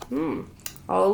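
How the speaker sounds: ordinary delivery, nothing marked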